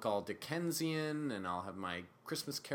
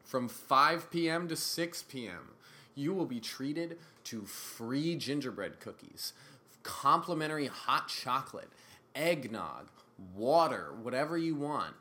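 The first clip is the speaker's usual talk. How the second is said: shameless plug. Real, not acted. Plugging a Christmas show to podcast listeners, deliberate announcer style. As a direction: pitch it like an ad read, item by item. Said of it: "Let's do my shameless plug".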